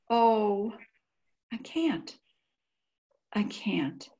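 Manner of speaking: whispered, strength gone; broken whisper. Acted. Diarist collapsing under grief, whispered. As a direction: barely breathe the words out.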